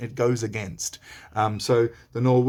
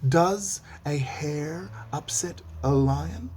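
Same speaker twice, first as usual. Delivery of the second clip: rhetorical question; 4 semitones higher than usual. Shown as a demonstration. Teacher quizzing students with a teasing rhetorical question. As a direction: lead them to the obvious answer. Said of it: "you tell me the answer".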